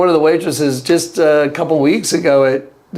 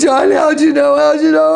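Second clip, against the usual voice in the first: imitating tearful cry; 11 semitones higher than usual. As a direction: plead through tears. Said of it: "And he's crying".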